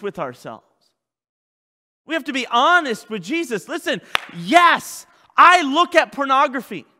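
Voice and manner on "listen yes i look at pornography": shouted, slow confession of sins; loud confession. Shown as a demonstration. Preacher shouts a sinner's confession to the congregation, loud and slow. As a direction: cry out each yes like a man owning his sins. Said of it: "You have to be honest".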